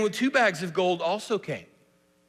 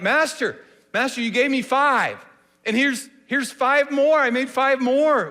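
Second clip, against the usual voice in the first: high and loud, bursting with pride; proud servant bursting with news; excited; 7 semitones higher, 7 dB louder than usual. Shown as a demonstration. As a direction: tell him like you can't wait to show him. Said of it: "Your excitement".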